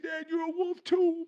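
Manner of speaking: put-on high-pitched boy's voice; astonished son. Son discovering his father is a wolf, astonished. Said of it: "And he said".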